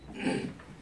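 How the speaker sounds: quick rough throat clear. Real, not acted. Official with a cold clears his throat before reporters, rough and quick. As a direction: clear the throat mid-sentence from a lingering cold. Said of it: "어, 기침".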